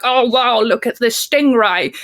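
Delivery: put-on excited Australian accent, wildlife-host gush; Steve Irwin Australian accent. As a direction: gush like an Australian nature presenter. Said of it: "I can't do an Australian accent".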